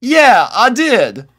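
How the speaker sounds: high, slow, sheepish admission; embarrassed admission. A narrator's reading. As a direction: admit it reluctantly. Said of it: "face turned to one of embarrassment".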